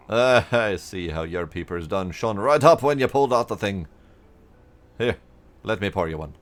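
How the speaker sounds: folksy made-up drawl for the mayor; horrible fake accent. Mayor pouring the farmer a drink, in a bad put-on accent. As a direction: ham up a bad country accent. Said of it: "I'm just gonna randomly change accents".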